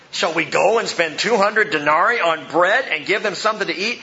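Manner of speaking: lively, mildly sarcastic question. Acted. Disciples questioning Jesus about buying bread, mildly sarcastic. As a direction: ask it with a touch of sarcasm. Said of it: "You gotta hear the sarcasm".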